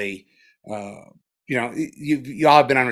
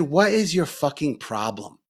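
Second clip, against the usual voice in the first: higher, louder exasperated demand; retold anger at himself; 4 semitones higher, 3 dB louder than usual. Teacher reenacting yelling at his own mind on retreat, exasperated. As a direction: confront your own mind, fed up and pushing. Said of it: "got really angry and said to myself".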